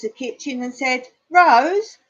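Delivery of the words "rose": loud high call across the house. Acted. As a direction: shout the name toward the kitchen. Calls wife in the kitchen.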